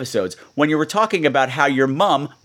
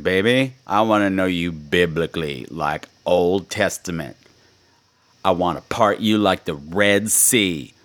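lower, sultry mock come-on, half joking; mock seductive; 7 semitones lower than usual. Host teasing a caller with a lower, mock seductive line. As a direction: purr it like a cheeky pickup line. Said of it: "that was dirty".

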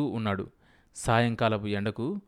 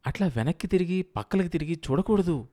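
higher, pointedly stressed words; thin, pressed emphasis; 6 semitones higher than usual. A narrator's reading. Wife corrects her gawking husband, thin and emphatic. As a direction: press each word home in a thin voice. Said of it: "సన్నగా నొక్కి నొక్కి అంది".

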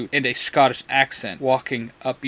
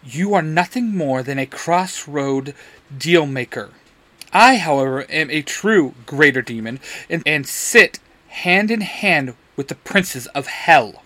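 threatening demon. Acted. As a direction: rise into a shouted boast. Demon threatens pinned Crowley.

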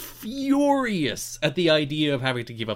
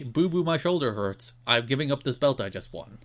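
babyish mock whine; 3 semitones lower, 4 dB quieter than usual. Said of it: "is gonna walk out and say".

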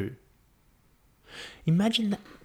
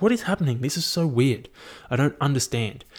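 bewildered; 4 semitones higher than usual. Acted. First pregnant woman bewildered.

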